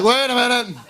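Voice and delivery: hammed-up "hold on" reaction; mock disbelief. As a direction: act out a startled objection. Comic reacting to absurd microwave instructions.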